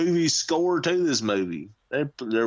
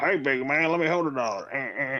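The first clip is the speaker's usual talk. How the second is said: put-on crotchety old man voice, slower. Previewing next week's episode, imitating a crotchety old man. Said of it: "the old crotchety Oakland A's wearing uniform jersey man go".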